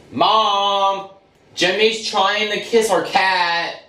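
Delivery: high, slow tattletale call; whiny tattling little sibling. Acted. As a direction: call out to Mom, snitching. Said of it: "I'm telling Mom".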